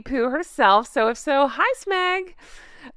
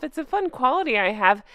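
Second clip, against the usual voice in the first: whisper; faster than usual. Real, not acted. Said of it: "aside about being petty".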